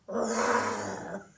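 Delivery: a mild mock bear roar; lightly voiced playful bear; bear sound. Shown as a demonstration. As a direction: show the kids a gentle bear growl. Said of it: "maybe you could sound like a bear".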